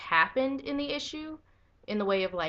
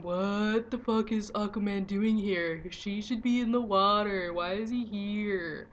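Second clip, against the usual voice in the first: baffled onlookers; 2 semitones higher, slower than usual. Retold or imitated. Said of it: "cue everyone and their mother going".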